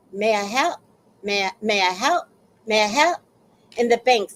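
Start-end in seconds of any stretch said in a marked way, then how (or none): 0.1-3.2 Caribbean teller's "May I help?", rising at the end; imitated Caribbean bank talk. Learner imitating bank tellers, Caribbean accent. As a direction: try out a Caribbean clerk's rising question. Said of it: "that's how they talk".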